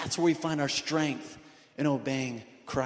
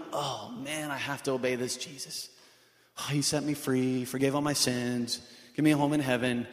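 grudging obedience; 4 semitones lower than usual. Retold or imitated. Believer grumbling about having to obey, mock-grudging. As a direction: sound put upon by duty. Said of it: "we're not going".

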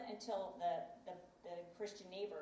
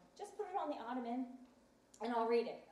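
higher, imitated dismissive reply; offhand brush-off; 4 semitones higher, 4 dB louder than usual. Husband putting off wife's book, dismissive. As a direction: put her off lightly.

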